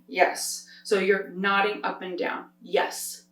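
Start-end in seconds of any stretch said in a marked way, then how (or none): 2.6-3.2 whispered yes. Shown as a demonstration. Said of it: "a basic yes".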